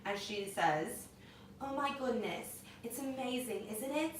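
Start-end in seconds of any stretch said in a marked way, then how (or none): 1.6-4.1 soft imitation British accent. Quoting Meghan Markle from a clip, British accent. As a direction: put on a soft British lilt. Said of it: "In a British accent like that?".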